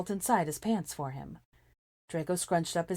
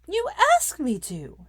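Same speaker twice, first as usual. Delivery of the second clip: much higher and louder, slow furious snarl; 9 dB louder, slower than usual. A narrator's reading. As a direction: fling it back at him enraged. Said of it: "she snarled back".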